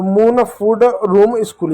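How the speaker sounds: "मून, फूड, रूम, स्कूल", each with a long oo; long OO vowel. Shown as a demonstration. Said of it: "बड़ा ऊ के रूप में करोगे". ("मून, फूड, रूम, स्कूल" में बड़ा ऊ बोलें)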